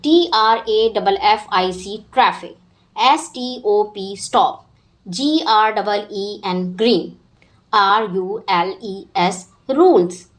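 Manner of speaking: letters spelled out one by one, then the word; spelling aloud. Shown as a demonstration. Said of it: "मेरे साथ पढ़ें और उनकी spellings याद कर लें".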